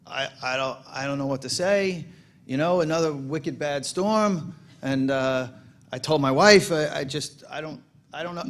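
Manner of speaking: imitating a stumped Boston mayor in a rough Boston accent. Boston mayor facing reporters after the storm, rough Boston accent. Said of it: "I'm gonna do the Boston accent wrong".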